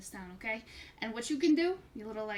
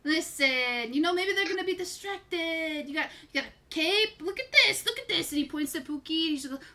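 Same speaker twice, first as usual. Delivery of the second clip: carnival barker; 5 semitones higher than usual. Acted. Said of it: "I don't like the voice is changing into".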